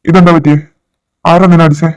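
loud, agitated questioning; agitated demand. Acted. Father asking his daughter who hit her, agitated.

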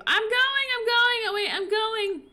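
high, loud, hurried repeats; frantic hurry. Real, not acted. Racing to save before the game moves on, frantic. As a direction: rush the words out in a panic.

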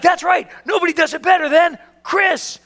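high, drawn-out ring announcer build; hype announcer. Retold or imitated. Banquet host presenting the number one salesman, imitated announcer call. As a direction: proclaim it, stretching the name at the end. Announcer proclaims the winner's name.

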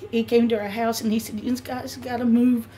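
high, tearful, breaking voice; real crying. Real, not acted. Crying while explaining to investigators.

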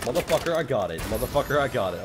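gleeful outburst; excited cursing. Real, not acted. Excited kill celebration.

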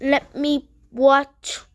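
high, drawn-out pleading; slow whiny plea. Acted. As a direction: stretch each word, begging.

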